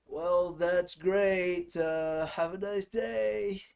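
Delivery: slow, drawn-out customer-service reply; mock politeness. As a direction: stretch it out with fake courtesy. Mock tech support reply to caller.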